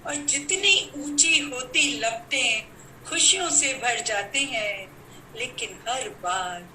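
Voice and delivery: questioning verse, paced out phrase by phrase; poem recital. Acted. Poet asks gathering why Ravana returns each year, declaimed verse. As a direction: declaim it, pausing after each line.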